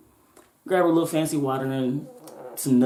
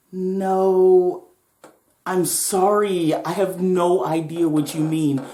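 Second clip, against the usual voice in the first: put-on polite girl; 3 semitones higher, 4 dB louder, much slower than usual.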